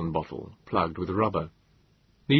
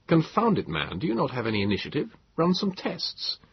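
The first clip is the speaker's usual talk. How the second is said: irritated; 7 semitones higher than usual. A narrator's reading. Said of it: "I started to become irritated".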